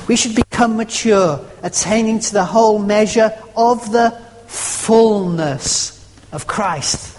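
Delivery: "whole" given the weight of the line; stress on whole. Shown as a demonstration. Preacher rereading the verse to his church, weighting "whole". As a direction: press on "whole". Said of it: "emphasizing a different word every time".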